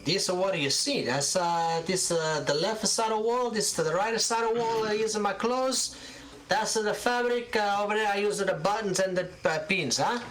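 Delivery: put-on high old Italian shopkeeper, demanding answers; a prickly elderly landlady type firing questions; suspicious old seamstress. Gilda shows her shop.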